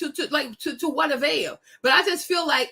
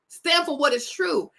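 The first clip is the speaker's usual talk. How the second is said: ordinary delivery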